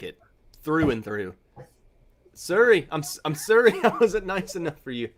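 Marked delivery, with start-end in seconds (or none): 2.3-5.1 badly faked Canadian "sorry"; half-laughing attempt at a Canadian apology accent; failed Canadian accent. Taster apologizing for not being nice, botched Canadian accent. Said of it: "that's not a Canadian accent at all".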